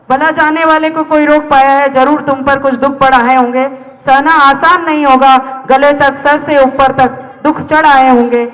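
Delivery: dramatic spoken-word verse, pleading; poem recitation. Acted. Poet talking to someone about to die, dramatic recitation. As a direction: recite it as an urgent, rhythmic appeal.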